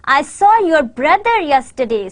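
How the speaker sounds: "saw" and "brother" lifted, other words lighter; stress on SAW and BROTHER. Shown as a demonstration. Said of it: "the stress on saw and brother".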